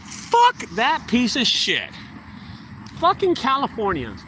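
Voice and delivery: father replaying his angry reaction to the cancelled job; retold outburst. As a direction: spit it out slowly with contempt. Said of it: "And I was like".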